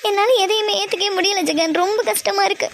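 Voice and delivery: mildly tearful, overwhelmed complaint. Acted. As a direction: act hurt, a touch of crying. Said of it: "நீ எதுக்காக இப்படி அழுதுகிட்டு இருக்க". (லேசான அழுகைக் குரலில்)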